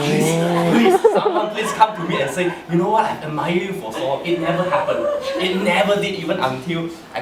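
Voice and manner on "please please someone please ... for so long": loud, laughing plea; mock pleading prayer. The boy prays for a love note, loud laughing plea. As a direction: begs the heavens, half laughing. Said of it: "I was praying hard".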